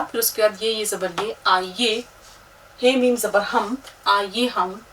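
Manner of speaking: letter-by-letter spelling with vowel marks; teacher spelling the title for students; spelling aloud. Shown as a demonstration. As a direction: spell each syllable out like a teacher. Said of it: "मसलन, सबसे पहले देखिए".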